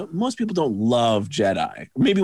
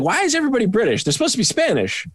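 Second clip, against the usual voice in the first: high, incredulous griping; acted exasperated complaint; 9 semitones higher, faster than usual. Viewer complaining about British accents in Spain, exasperated. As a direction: protest it high, baffled by the nonsense. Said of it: "it's like".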